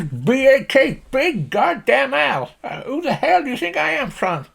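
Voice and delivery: very high farmer's rant; exasperated, high-pitched country holler; indignant Slim Pickens. Acted. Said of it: "If you imagine Slim Pickens".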